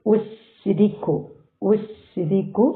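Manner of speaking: "ഉശ്രിക്കു" slowly, with air flowing on the sh; airy shin. Shown as a demonstration. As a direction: linger on the hushing sh in "ഉശ്രിക്കു". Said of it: "നന്നായിട്ട് കാറ്റ് പുറത്ത് വരുന്ന അക്ഷരാണ്".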